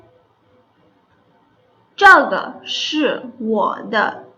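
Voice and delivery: every syllable stretched out slowly; slow careful classroom demo; very slow model sentence. Shown as a demonstration. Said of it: "इसकी एक example कर लेते हैं".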